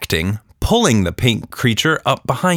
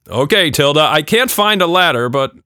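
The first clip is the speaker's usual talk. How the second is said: louder, hurried father voice; flustered dad; 7 semitones higher, 5 dB louder than usual. A narrator's reading. Father rushing back to daughter, flustered voice. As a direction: blurt it out breathless and worried.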